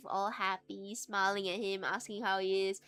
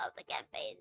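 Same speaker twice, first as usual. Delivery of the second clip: soft unvoiced whisper; 8 dB quieter, faster than usual. Real, not acted. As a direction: whisper it like a secret. Whispered aside about pact.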